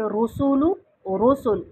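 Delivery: रसूलू ends on u, then रसूल stopped silent; first रसूलू voweled, then रसूल cut to sukoon; with and without vowel. Shown as a demonstration. Teacher contrasting रसूलू and pausal रसूल. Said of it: "पेश को हटाकर हर्फ को साकिन करके".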